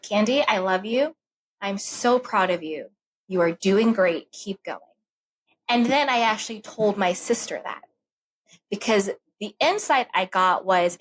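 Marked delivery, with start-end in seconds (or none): 0.0-4.8 tender self-talk. Retold or imitated. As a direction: speak to yourself like a loving friend. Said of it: "I said that to myself".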